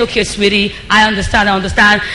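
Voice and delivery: calm your angry partner down gently; soothing spouse. Retold or imitated. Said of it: "Keep saying".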